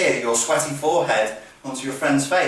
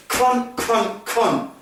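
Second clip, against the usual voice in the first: higher, punched staccato curses; aggressive monosyllabic swearing; 7 semitones higher, much slower than usual. Shown as a demonstration. Instructor psyching up before smashing in, aggressive staccato swearing. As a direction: jab out each repeated word. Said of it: "kinds of things you should be doing".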